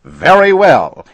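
very high, very loud shout. A narrator's reading. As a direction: explode in anger. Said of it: "he shouted".

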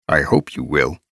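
reply calmly and gently. A narrator's reading. Mentor answering his apprentice's boast, calmly. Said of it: "replied calmly".

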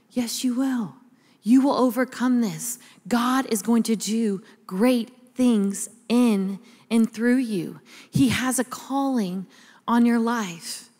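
slow, gentle fatherly promise; tender reassurance. Retold or imitated. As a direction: reassure with slow, weighted conviction. Father reassures upset daughter.

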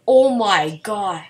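slow breathless oh my god under the breath; hushed, awed gasp of words; stunned whisper. Real, not acted. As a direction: whisper it in disbelief. Stunned by sudden game event.

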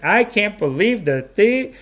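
high, slow, drawn-out mock praise; imitated gushing. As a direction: stretch the words out, gushing like an adoring fan. Hair and makeup duo gushing.

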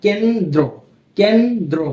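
কেন্দ্র in two parts, কেন-দ্র; র-ফলা fully sounded. Shown as a demonstration. Teacher showing the rule, কেন্দ্র with its দ্র fully sounded. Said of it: "উচ্চারণ কিন্তু রফলা হচ্ছে".

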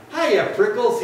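high, loud storybook shout; shouted greeting. A narrator's reading. Jackrabbit dashing by the cactus, shouting. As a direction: holler a cheeky hello. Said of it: "he, she shouted".

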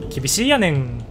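joking fake Kansai-ben, lightly done; bad Kansai dialect. Streamer teasing chat in deliberately bad Kansai dialect. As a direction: put on a clumsy Kansai dialect for a laugh. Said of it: "さっきのは下手な関西弁です".

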